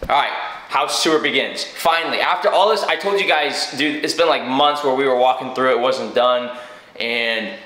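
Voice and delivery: talking with retainers in; slightly lisped retainer speech. Real, not acted. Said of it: "Sorry, I sound like this. I got my retainers in".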